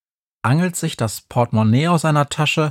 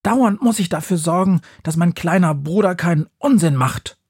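put-on higher, annoyed older sister; grumbling witch; 5 semitones higher than usual. A narrator's reading. Befana grumbles about her little brother, annoyed. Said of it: "schimpft sie".

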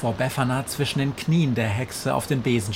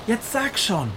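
calling out; 11 semitones higher than usual. A narrator's reading. Witch Befana calls to the fish swarm, demanding. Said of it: "ruft sie".

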